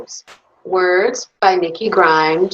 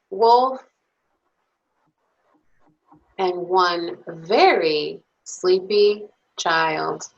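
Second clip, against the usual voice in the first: put-on lively, expressive bedtime story read to little kids; reading to children. Reads picture book to children.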